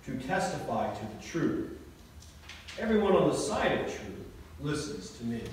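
measured formal Gospel reading voice; scripture reading. Acted. Pastor reads the Gospel to the congregation, formal reading voice. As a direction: read the Passion dialogue steadily to the congregation.

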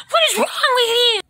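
quick, high, loud angry shout; fast angry yell. Acted. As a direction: snap at him at full volume. Outburst rising to yell.

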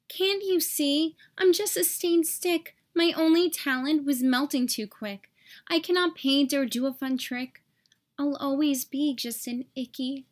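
a hint of a sad, small stick voice; sad little stick. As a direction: mope through it gently. Stick's sad refrain again.

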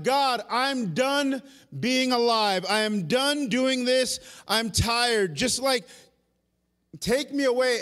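loud, high, drawn-out cry of despair; pleading to be taken away, worn out; despairing plea. Retold or imitated. Elijah crying out to God, loud anguished plea. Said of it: "he runs away and he goes".

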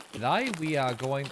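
put-on Australian accent with "today" said as "to-die", stretched out; faltering Australian accent, "today" stretched to "to-die"; attempted Australian accent. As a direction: lean into an Australian accent, "today" as "to-die", then let it fall apart. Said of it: "Can't do an Australian accent".

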